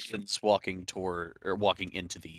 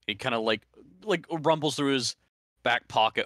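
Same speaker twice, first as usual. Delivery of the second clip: ordinary delivery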